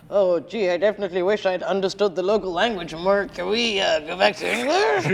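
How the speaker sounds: bad Welsh accent, low and hushed; terrible Welsh accent. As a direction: put on a terrible Welsh accent in a deep hush. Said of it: "in, like, a terrible Welsh accent, whispering, but with a deeper voice".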